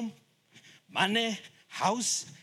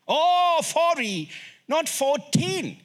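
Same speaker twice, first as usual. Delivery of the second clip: petrol station lady; 9 semitones higher, much slower than usual. Acted. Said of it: "I told this lady".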